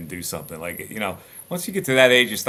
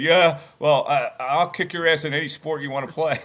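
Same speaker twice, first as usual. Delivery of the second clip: mock tough-guy threat; 4 semitones higher, 4 dB louder than usual. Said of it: "he wound up saying".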